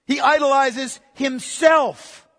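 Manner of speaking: loud and very slow, each word hammered; slow emphatic declaration. Real, not acted. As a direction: preach it out, word by word. Preacher hammers the point home.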